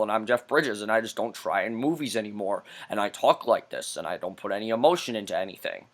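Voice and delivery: low, soft, droning mumble; mocking Jeff Bridges. Reviewer mocks Jeff Bridges's character with a low droning mumble. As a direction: lifeless low monotone, mocking the actor. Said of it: "This is how his character talks".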